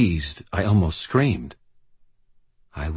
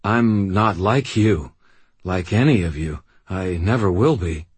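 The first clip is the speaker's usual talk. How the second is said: defiant refusal; 2 semitones higher, 4 dB louder than usual. Acted. Harry refuses the sword.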